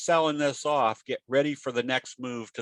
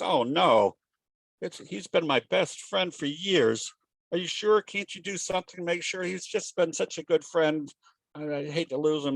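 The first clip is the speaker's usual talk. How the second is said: higher-pitched imitation of a distressed pet owner; mock distressed pleading; 4 semitones higher than usual. Pet owner begs vet to save parakeet, mildly acted distress. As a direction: plead in a raised pitch, acting lightly upset.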